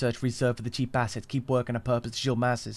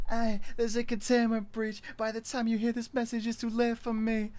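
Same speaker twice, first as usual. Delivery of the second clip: high, sped-up chipmunk sound; 9 semitones higher than usual. Shown as a demonstration. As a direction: pitch it way up like a chipmunk. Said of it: "Let me speed it up".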